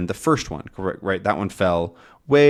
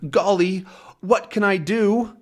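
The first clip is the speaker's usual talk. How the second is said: high-pitched fretting dog voice; Snowy; 9 semitones higher than usual. Acted. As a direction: think aloud in a high little voice. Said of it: "Snowy thinks".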